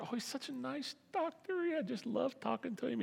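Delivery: high, soft, gushing patient voice. Acted. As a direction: swoon over the nice doctor. Patient gushing about nice doctor.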